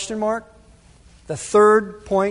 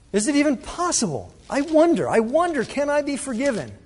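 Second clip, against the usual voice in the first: higher, pleading voice of someone unsure they can be forgiven; lightly voiced worried believer, pleading; a hint of anxious pleading; doubting congregant; 6 semitones higher than usual.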